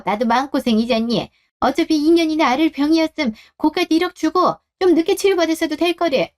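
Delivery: lightly voiced mother-in-law lecturing her daughter-in-law. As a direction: nag and blame her like a bitter mother-in-law. Mother-in-law scolds her son's wife.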